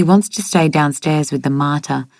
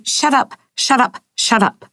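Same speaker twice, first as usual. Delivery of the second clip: distraught shouting, narrated; 8 semitones higher than usual. A narrator's reading. Rosie refusing to hear about her mother, distraught mock shout. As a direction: shut her out with high-pitched bursts. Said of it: "Rosie can't stop shouting and crying".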